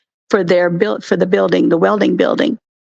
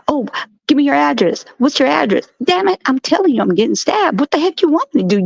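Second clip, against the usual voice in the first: acting out a 911 call; 6 semitones higher than usual. Acted 911 call quarrel.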